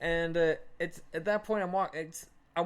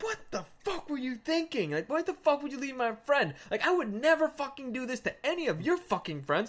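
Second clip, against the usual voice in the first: higher-pitched indignant scolding; fuming; 5 semitones higher than usual. Retold or imitated. Storyteller confronting friends who left his buddy, fuming higher voice. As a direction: re-enact telling off your friends. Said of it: "I'm fuming".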